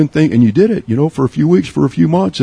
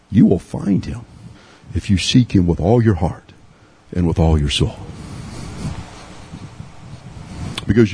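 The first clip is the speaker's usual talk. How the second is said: intimate preaching; 9 semitones lower than usual. Acted. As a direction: bring it down close, like a confession. Low, slow intimate preaching.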